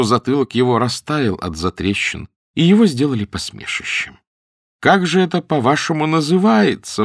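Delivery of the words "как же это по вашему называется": higher-pitched, mildly imploring question; lightly voiced plea, pitch raised; pleading. A narrator's reading. Porter begs the women for the right name, pleading. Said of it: "взмолился он наконец".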